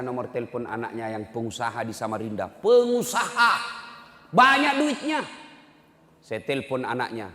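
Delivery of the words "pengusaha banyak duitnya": ironic emphasis. Acted. Ironic emphasis on rich son.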